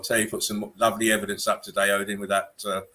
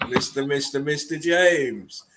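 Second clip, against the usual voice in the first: slow, higher, stretched announcer call; mock ring announcer for James; announcer intro; 5 semitones higher, slower than usual. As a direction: announce him like a ring entrance. Announcing a friend arriving.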